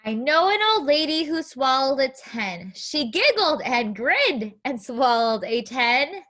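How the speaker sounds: put-on sing-song read-aloud rhyme for kids. Teacher reading a counting book to young children, sing-song.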